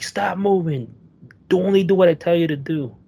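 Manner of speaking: high, fast mock cop yell; retold yelling. Amped-up cop yelling orders at the driver, high and fast. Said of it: "he's, like, yelling".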